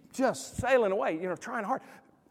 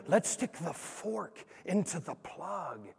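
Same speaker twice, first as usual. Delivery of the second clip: sly suggestion; 2 semitones lower, 10 dB quieter, much slower than usual. Retold or imitated. Dad tempting son.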